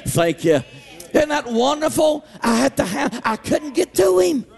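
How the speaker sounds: rising, sung-out preacher cadence; preaching. Acted. Preacher to Wednesday night congregation, fervent preaching voice. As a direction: preach it with full fervor to the church.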